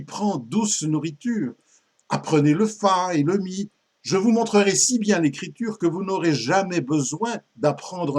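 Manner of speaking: lively poem recitation as a persuasive teacher; récitation de poème, Robin insistant. Acted. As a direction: coax the pupil with theatrical phrasing. (déclamation vive d'un maître séducteur)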